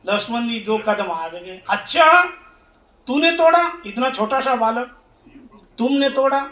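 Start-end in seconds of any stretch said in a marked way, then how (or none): 1.7-6.4 incredulous challenge. Retold or imitated. Angry sage confronts a small boy, incredulous. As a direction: play a sage taken aback by a small culprit.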